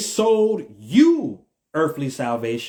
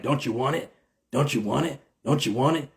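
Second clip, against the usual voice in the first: softer creepy clown taunt, repeated; It clown impression; 3 semitones lower, 4 dB quieter, faster than usual. Imitating the It clown luring a victim, creepy taunt. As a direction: lure them in like the It clown. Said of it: "how the it clown be like".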